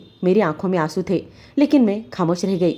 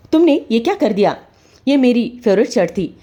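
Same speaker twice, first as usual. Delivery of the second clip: angry rebuke; 4 semitones higher than usual. Acted. Husband scolding wife over burnt shirt, angry. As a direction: blame her for the ruined shirt.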